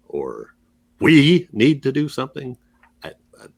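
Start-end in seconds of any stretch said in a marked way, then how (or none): 1.0-2.6 we punched up high; stress on WE. Shown as a demonstration. Co-host testing the title's emphasis, stress on we. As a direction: open with a hit on we. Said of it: "where the emphasis goes".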